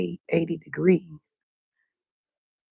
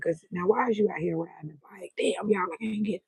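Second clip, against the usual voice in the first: whisper; 6 dB quieter than usual. Real, not acted. Whispering about the bike rider.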